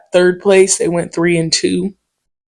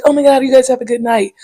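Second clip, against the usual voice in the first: chirpy goodbye; 6 semitones higher, faster than usual. Retold or imitated. Woman leaves cheerily.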